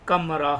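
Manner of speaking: कमरा said with a short a, as "kamra"; the right way to say कमरा; correct pronunciation. Shown as a demonstration. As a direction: say कमरा with a plain short first vowel. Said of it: "अब इसको किमरा नहीं बोलेंगे".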